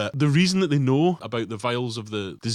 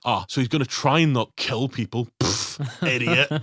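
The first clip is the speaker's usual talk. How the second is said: disdainful. Retold or imitated. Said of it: "says it with such disdain".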